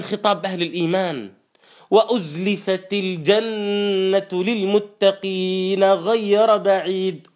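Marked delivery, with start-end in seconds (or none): 1.9-7.3 slow melodic tajweed chant; Quran recitation. Acted. Preacher chanting the verse to the congregation, slow and melodic. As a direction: draw out each verse like a reciter.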